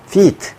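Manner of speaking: 'feet' with a held ee; long vowel. Shown as a demonstration. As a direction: stretch the ee in 'feet'. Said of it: "이렇게 길게". ('feet' 길게 늘여서)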